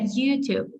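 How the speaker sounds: "YouTube" with YOU stressed, falling on Tube; stress on first syllable. Shown as a demonstration. Teacher models social network names, first-syllable stress. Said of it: "наголошуючи перший склад".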